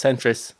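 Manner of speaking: "centris" with a sharp I in the end syllable; "cen-tris", crisp I ending; centres as centris. Shown as a demonstration. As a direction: say "centris", "-tris" not "-tres". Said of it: "it's not centre, it's centris".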